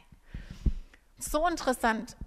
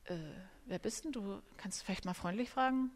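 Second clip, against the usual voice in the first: offended retort; 2 semitones lower, 9 dB quieter than usual. Retold or imitated. Offended reply to rude stranger.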